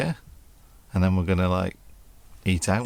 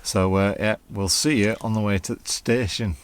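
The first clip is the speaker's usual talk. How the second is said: put-on Northern accent. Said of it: "I don't know why we're doing Northern accents".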